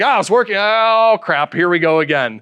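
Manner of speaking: mock programmer let-down, dropping in pitch after the groaned "Oh"; relief turning to dismay. Programmer finding working code broken again, mock dismay.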